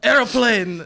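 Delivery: loud, hammed-up German accent; mock German accent. Shown as a demonstration. Guest out of ideas on request, loud mock German accent. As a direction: call it out in silly German English. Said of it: "German accent".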